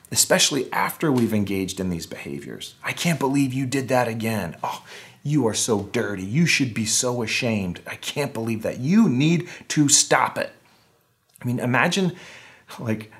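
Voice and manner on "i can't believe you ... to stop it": shaming inner critic. Retold or imitated. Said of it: "inner critic voice".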